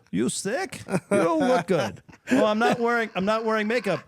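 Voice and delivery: put-on high, loud Asian-accented coach giving orders; bossy old master in a thick Asian accent. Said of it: "this Asian accent you're doing".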